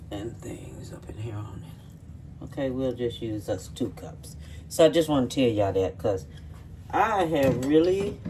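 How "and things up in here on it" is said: whispering. Real, not acted. Muttered aside while cooking.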